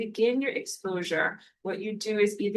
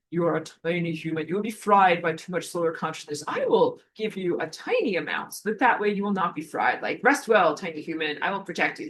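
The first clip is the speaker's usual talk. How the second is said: lightly voiced wise tree spirit; talking tree. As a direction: speak gently as an old tree. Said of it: "this is my tree voice".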